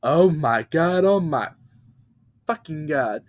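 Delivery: shocked repeat. Acted. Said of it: "the truck was yelling".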